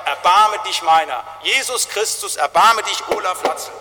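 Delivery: loud, slow plea for mercy; crying to God. Retold or imitated. Pastor voicing his own cry to God, loud plea. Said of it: "dass ich zum lebendigen Gott schreie".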